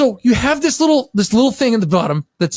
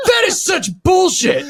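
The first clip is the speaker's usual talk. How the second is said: higher, slow, indignant outcry; mock outraged shout; 7 semitones higher, slower than usual. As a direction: belt it out like you've been cheated. Retelling his reaction to the infomercial.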